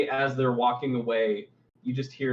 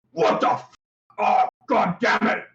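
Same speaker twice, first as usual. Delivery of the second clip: exasperated louder curse, higher; fed up, blurts it out; annoyed bugbear outburst; 8 semitones higher, 6 dB louder than usual. Acted.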